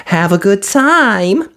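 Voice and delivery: high brisk fairy voice; quick and businesslike; fiery fairy. A narrator's reading. Fiery fairy asking Cinderella for mice, brisk. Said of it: "cried her fairy godmother".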